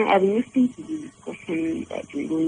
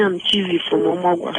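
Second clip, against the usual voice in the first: repeated louder for the host; 4 dB louder than usual. Real, not acted. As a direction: raise the voice so the host hears. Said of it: "Please, can you talk louder?".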